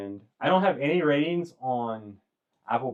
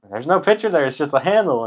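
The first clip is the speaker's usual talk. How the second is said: higher, louder incredulous barman; 7 semitones higher, 8 dB louder than usual. Retold or imitated. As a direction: point out the obvious, pitched up. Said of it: "then he's like".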